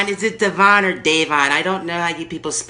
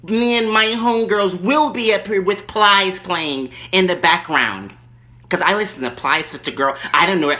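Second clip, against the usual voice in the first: Erkenbacher. Acted. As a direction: play the lady caller backing down. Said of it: "Erkenbacher calling back".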